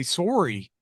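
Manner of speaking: Canadian "sorry" with a long "oh" vowel; mock Canadian pronunciation of "sorry"; Canadian accent. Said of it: "those poor Canadian, Canadian kids".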